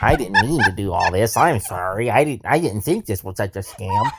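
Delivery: nerdy, sheepish scammer voice; buck teeth impression. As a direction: mumble an apology like a nervous nerd. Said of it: "he talked like this".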